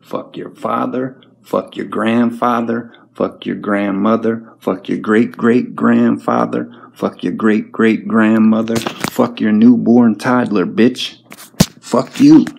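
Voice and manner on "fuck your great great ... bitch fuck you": swearing louder line by line until the final yell; building to a shout. Real, not acted. Ranting at critics, building to a furious shout. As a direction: let the curses climb from loud to a full-throated yell. Rant escalates to yelling.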